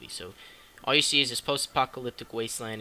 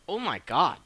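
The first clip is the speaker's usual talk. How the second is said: higher, louder astonished outburst, acted; mock amazement; 5 semitones higher, 5 dB louder than usual. Viewer finds the dog is talking, mock amazed outburst. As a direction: exclaim it as a stunned viewer.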